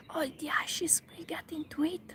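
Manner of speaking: a laugh breaking into the whisper; whispered giggling. Real, not acted. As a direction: giggle through the line. Laughing while reading Alice.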